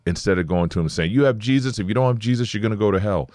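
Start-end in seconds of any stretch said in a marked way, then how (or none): 1.1-3.3 raised, pushy hellfire warning, a mock; mock harsh warning. Preacher mocking a pushy stranger, harsh warning. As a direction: bark it at him as a mock bad example. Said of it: "No, you say".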